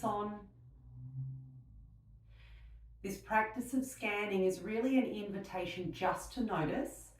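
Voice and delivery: unhurried meditation voice with long pauses; guided meditation. Real, not acted. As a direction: gently guide them into stillness, leaving space between phrases.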